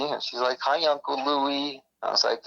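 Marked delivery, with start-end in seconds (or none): 0.6-1.8 put-on high, slow sweet child voice; small girl greeting her uncle; little girl voice.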